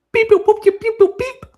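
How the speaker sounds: high, loud robot beeping; robot beeps. Acted. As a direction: beep like a little robot. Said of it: "Here he is".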